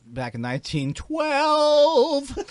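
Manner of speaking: put-on high, slow old-timer voice; lightly voiced old-timer. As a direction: play a creaky old vaudevillian.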